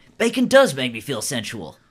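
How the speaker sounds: animated, swooping, comic made-up character voice. Voicing a bald tattooed character replying to a player: new voice for bald tattooed guy. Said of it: "Have I done this voice before?".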